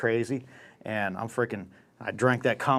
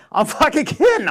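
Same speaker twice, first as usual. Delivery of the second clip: high, loud backpedal; squealed just-kidding; joking protest; 14 semitones higher, 6 dB louder than usual. Retold or imitated. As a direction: laugh it off as just a joke, loudly. Reenacts backpedalling to the dealer.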